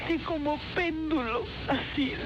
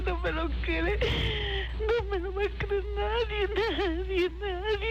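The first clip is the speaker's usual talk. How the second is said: terrified disbelief; 3 semitones higher than usual. Real, not acted. Mother sees son floating.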